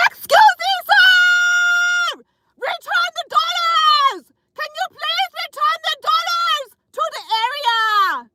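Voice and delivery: put-on loud, high Russian-accented shout from the pole. Dancer on the pole yelling at a customer, loud Russian accent. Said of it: "That's literally how I did it".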